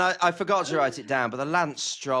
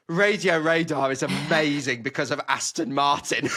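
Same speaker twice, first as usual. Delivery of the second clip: excited; 4 dB louder than usual. Retold or imitated. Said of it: "with the most excited tone in her voice".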